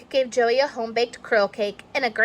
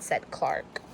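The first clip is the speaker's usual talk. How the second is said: whispered tag; 7 semitones lower, 10 dB quieter than usual. A narrator's reading. Narration whispered.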